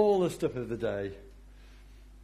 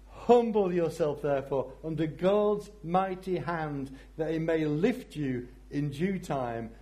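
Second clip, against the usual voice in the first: enthusiastic reading; 4 semitones higher than usual. Acted. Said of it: "it's so wonderful".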